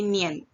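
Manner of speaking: Nian as one short glide, "nyen"; joined-up Nian. Shown as a demonstration. Teacher repeating the correct reading, joined-up demo. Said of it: "itu harus langsung".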